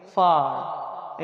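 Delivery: "फार" with a long open "आ" before r. Shown as a demonstration. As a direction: stretch the aah in "फार". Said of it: "इसे पढ़ेंगे".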